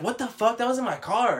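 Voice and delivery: high, loud imitation of alarmed disbelief; shocked outburst. Coworker shocked at finding her things.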